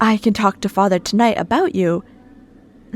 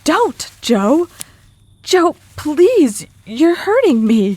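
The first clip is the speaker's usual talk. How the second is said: high, louder panicked begging; frightened pleading; 7 semitones higher, 5 dB louder, slower than usual. Acted. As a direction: beg him to let go, scared and hurting. Grabbed, begging him to stop.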